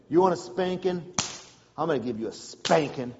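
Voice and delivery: a father savouring the threat; menacing dad. Retold or imitated. Dad quietly threatening his son with a spanking. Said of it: "Then he starts doing this".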